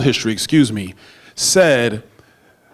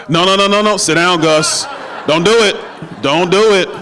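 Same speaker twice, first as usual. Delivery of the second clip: playful shout; 4 semitones higher than usual. Real, not acted. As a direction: shout him back to his seat, laughing. Joking at Gus to sit down.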